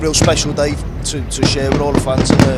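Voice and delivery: excited. Real, not acted. Fan overwhelmed recalling title day.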